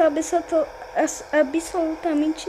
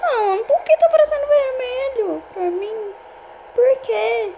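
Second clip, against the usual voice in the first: frightened cry; 4 semitones higher than usual. Real, not acted. Screen turns red, panicking.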